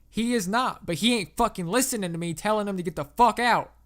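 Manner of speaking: loud southern exasperation; pissed-off southerner. A narrator's reading. Angry landowner tells the operator the trespasser won't listen, pissed off southern accent. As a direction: complain angrily in a thick southern accent. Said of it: "He sounded pissed as fuck".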